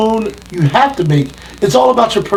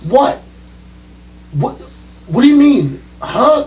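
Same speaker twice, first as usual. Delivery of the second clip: baffled promoter; 3 semitones higher, slower than usual. Retold or imitated. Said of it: "I'd walk in the locker room and be like".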